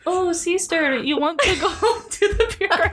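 bad Italian accent. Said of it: "To make it sound more Italian".

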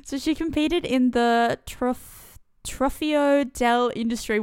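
Trofeo del Industrie in broad Australian accent. Shown as a demonstration. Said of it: "Wow, Australian there".

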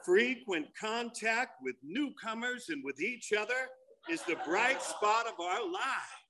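slow, soft announcer read; commercial voice-over. Acted. Comic finishing the big book sales pitch, slow soft announcer. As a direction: ease through it like an ad closer. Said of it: "you hear this voice coming".

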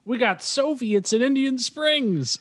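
high, slow mock alarm; drawn-out, high-pitched imitation; John Travolta. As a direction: announce it like a stunned film hero.

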